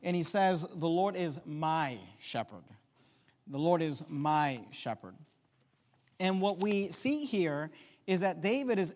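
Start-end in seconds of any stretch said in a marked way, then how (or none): 0.7-2.6 MY leaned on, then a falling close; stress on MY. Shown as a demonstration. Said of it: "uses an intimate word". 3.5-5.2 MY held and leaned on; stress on MY. Shown as a demonstration. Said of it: "uses an intimate word".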